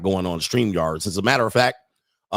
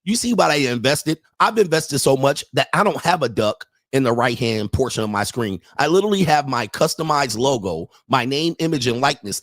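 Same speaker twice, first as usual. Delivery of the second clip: retold exasperated rant; 3 semitones higher than usual. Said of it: "I'm like".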